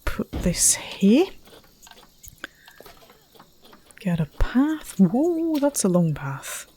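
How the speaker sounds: hushed happy whisper. Real, not acted. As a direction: whisper to yourself while working. Whispering while building.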